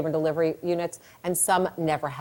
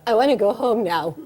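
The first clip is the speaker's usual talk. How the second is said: whining woman in labor; 2 semitones higher, 3 dB louder than usual. Acted. Heard that out of a woman's mouth.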